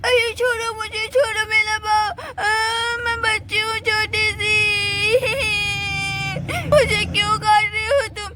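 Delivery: a hint of a scared child calling mummy; mock crying child. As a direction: fake sobbing for mummy. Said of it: "Sweety जोर जोर से चिल्ला रही होती है". (डरी हुई बच्ची का नाटकीय रोना)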